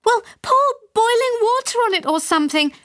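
high, plaintive cry; mild wail. A narrator's reading. Mother to father from the far wall: mild wail. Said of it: "wailed my mother".

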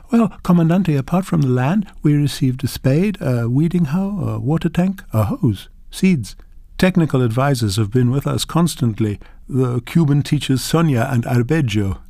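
a humble farmer showing off her harvest; proud grandmother. Acted. Grandmother lists the support received.

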